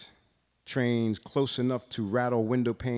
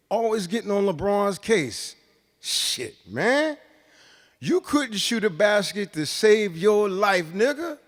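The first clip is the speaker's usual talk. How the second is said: much higher and louder, a mocking corner heckler; defiant street voice; 11 semitones higher, 9 dB louder than usual. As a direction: shout down LeBron's critics from the street corner. Street voice defending LeBron.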